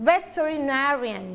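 "veterinarian" with the stress on "na". Shown as a demonstration. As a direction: model "veterinarian" slowly, leaning on "na". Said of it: "เป็นการเน้นเสียง".

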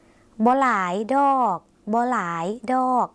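very slow บ่หลายดอก, clear gap before ดอก; emphatic slow demo, ดอก set apart by a pause. Shown as a demonstration. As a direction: break after บ่หลาย, then stretch out ดอก. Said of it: "เน้นนะคะ คุณผู้ชมต้องเว้นวรรคคำว่า".

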